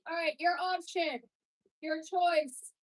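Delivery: loud, projected over the music; loud coaching call. Real, not acted. Instructor gives the class a choice, loud call.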